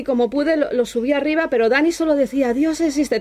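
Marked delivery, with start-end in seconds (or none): 2.5-3.2 high, shaken exclamation, imitated; retold trembling awe. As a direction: mimic someone overwhelmed and trembling.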